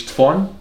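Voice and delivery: "telefone" shortened to "t'fón"; swallowed syllables. Shown as a demonstration. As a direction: drop the "ele" from "telefone". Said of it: "diz telefone".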